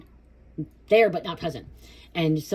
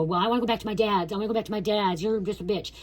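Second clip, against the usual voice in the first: put-on defiant kid retort; 5 semitones higher, faster than usual. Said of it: "I would go".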